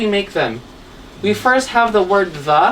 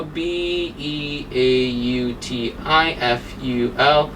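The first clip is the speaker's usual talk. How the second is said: slow spelling out; 6 semitones lower, 4 dB quieter, slower than usual. Shown as a demonstration.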